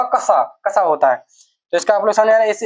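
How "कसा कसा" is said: कसा said clearly as the right form; correct pronunciation. Shown as a demonstration. Teacher giving the proper sound of the letter. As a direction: model कसा slowly for students. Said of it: "इसका ठीक उच्चारण होगा".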